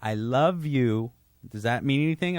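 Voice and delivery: lightly voiced wife, very slow and sincere; wife tells husband she loves him, slow and earnest; slow earnest declaration. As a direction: spell out each word slowly, meaning it. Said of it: "She's like".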